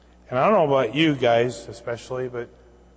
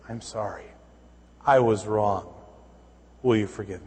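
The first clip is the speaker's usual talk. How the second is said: sincere apology; 4 semitones lower than usual. Shown as a demonstration.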